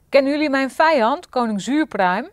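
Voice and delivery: loud, high angry bellow; roaring king. A narrator's reading. Angry king roaring at his lackeys. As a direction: bellow it at the servants. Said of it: "brulde koning Gulzig".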